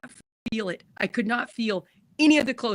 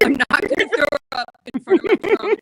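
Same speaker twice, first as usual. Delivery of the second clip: a laughing vow, loud and bright; 7 semitones higher, 8 dB louder than usual. Real, not acted. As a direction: say it through a real laugh, louder. Laughing at her own resolve.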